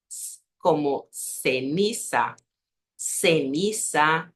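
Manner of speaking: ceniza with a clear S sound, slow; seseo ceniza. Shown as a demonstration. Teacher to Brazilian students, slow S in ceniza. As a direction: say ceniza slowly with S. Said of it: "este sonido de S".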